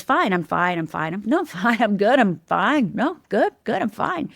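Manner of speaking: brushing it off with a little laugh; put-on fine. Her outside self reassuring everyone, acted breezy denial. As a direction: insist you're fine, pitch climbing at the end. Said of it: "The outside Rhonda was".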